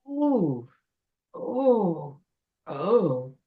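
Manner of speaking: short sick moans, sinking in pitch; queasy groans. Acted. Troll witch after eating the coat, queasy moaning. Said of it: "groaning and moving away".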